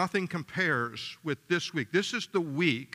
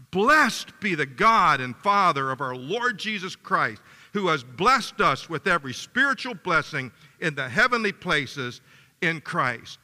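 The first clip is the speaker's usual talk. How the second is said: many voices in unison; 4 dB louder than usual. Real, not acted. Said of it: "let's read it one more time".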